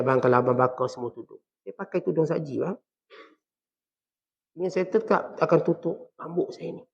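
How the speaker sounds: subdued, polite but firm; nicely spoken wife. Acted. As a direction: tell husband gently, without backing down. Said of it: "Isteri cakap dengan baik".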